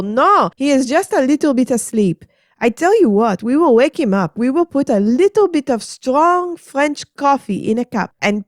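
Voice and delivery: high, dismissive French lady; breezy Adeline. Acted. Adeline reassuring Margaret, high breezy.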